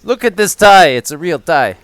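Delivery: defensive mock Quebecois accent; lightly hammed fake French. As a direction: insist as a put-on French-Canadian. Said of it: "Quebecois, okay".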